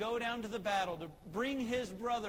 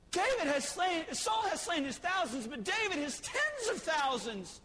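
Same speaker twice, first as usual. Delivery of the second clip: cheering women; 7 semitones higher than usual. Retold or imitated.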